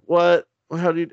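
high, loud startled what; shocked henchmen. Retold or imitated. Villains see Steve Rogers arrive, loud startled outcry. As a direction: blurt it out in shock. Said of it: "they're like".

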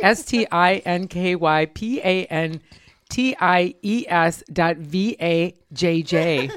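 spelled out slowly. Shown as a demonstration. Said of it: "spells out web address".

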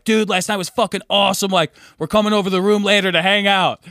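a light, lively Australian voice; a hint of an excited Australian bloke; Australian accent. Aussie dudes recounting last night, a light Australian accent. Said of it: "your Australian accent got really good".

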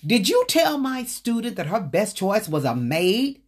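indignant challenge; mock angry confrontation. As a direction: confront her like a furious teacher. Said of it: "He went in with all barrels loaded".

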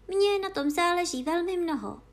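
put-on girl hastily defending herself; hurried and urgent. A narrator's reading. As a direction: jump in before he goes on. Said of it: "řekla Alenka spěšně".

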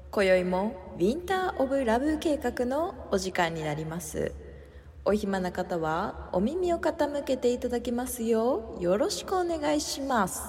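put-on grand, loud young-lady greeting; haughty rich girl japanese. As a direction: play a proud rich heiress. Haughty opening greeting to listeners.

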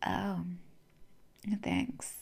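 very soft, halting letdown; acted-out underwhelmed mumble; disappointed. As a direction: trail off in weak, polite thanks. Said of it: "the most disappointed".

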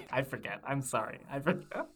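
giggling while being tickled; laughing helplessly, squirming. Real, not acted. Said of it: "stop tickling me".

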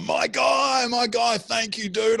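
high, effusive mock gratitude; gushing thanks. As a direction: imitate an overjoyed guy thanking his buddy. Imitating grateful man returning for coat.

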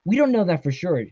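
restrained narrated yell. A narrator's reading. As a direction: call it out over a scuffle. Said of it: "Devon yelled".

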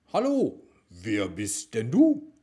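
hoher Eichhörnchen-Ruf; squirrel voice. A narrator's reading. Squirrel character greets Rudi.

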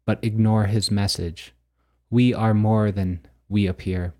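measured, declamatory reading of mystical verse; deliberate recital with a pause after each statement; poetic book reading. Acted. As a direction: read it out like solemn poetry, line by line. Reads own poetic book text aloud.

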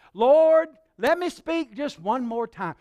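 loud, high "Lord", then pleading; hammed-up last request; laying it on thick. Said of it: "He was laying it on thick".

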